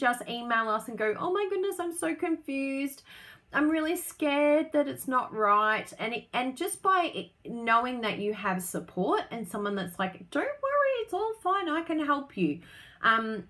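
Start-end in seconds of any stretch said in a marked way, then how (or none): 1.2-5.9 higher, slowed, playfully fretful; mock confused viewer. Viewer messaging the bloggers for help, hammed-up fretful plea. 10.3-12.6 a much higher, sing-song comforting voice; mock reassuring helper. Helper reassuring a scared crafter, hammed-up soothing tone.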